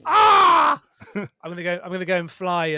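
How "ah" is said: pilot yelp. Pretend. Mock crash cry.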